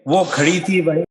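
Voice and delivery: measured nazm recital in short, paused phrases; poetry recitation. Acted. Poet performing his three-act dramatic nazm, recited. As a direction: recite line by line with deliberate cadence.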